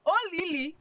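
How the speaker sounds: high, loud, drawn-out begging; wailing plea. Acted. Friend urging Olivia to be sharp about money, wailing plea. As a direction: cry out in theatrical exasperation.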